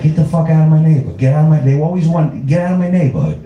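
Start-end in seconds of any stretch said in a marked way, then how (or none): 0.0-1.6 Brooklyn Italian guy. Acted. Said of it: "the Italians, like". 2.5-3.4 Brooklyn Italian guy. Acted. Italian guy guarding his neighborhood, indignant Brooklyn voice. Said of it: "the Italians, like".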